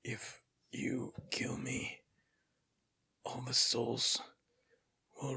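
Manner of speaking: raspy whisper of a dying dwarf; guttural dwarf voice. Acted. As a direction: rasp it out like a withered corpse. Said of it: "guttural voice speaking in Dwarven".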